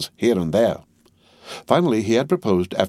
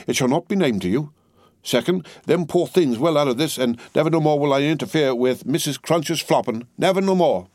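solemn vow; 7 semitones higher than usual. A narrator's reading. Cruncher vows to Miss Pross, solemn and shaken. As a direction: swear it like a shaken man. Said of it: "ashy and solemn visage".

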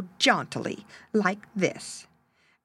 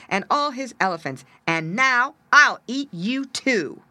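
loud, high-pitched boasting cat threat; terrible voice; 5 semitones higher, 5 dB louder than usual. A narrator's reading. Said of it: "in a terrible voice".

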